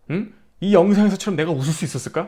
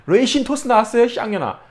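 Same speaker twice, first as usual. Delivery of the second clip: sarcastic sweet serving call; mock-polite triumphant jab; smug taunt; 6 semitones higher than usual. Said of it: "내가 한마디 해야지".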